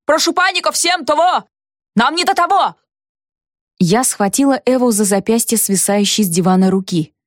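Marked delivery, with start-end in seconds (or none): 0.0-2.8 much higher harried yelling; yelling into phone. A narrator's reading. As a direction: brush the caller off at full voice. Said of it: "заорал Павел в трубку".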